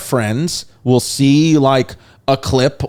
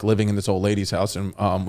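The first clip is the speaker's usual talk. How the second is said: put-on kids' hushed worry; 5 semitones lower, 7 dB quieter, faster than usual. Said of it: "they were like".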